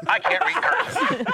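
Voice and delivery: slow, high announcer catchphrase; mock jingle read, drawn out; phrase that pays. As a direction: sell it like a radio catchphrase. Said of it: "today's phrase that pays is".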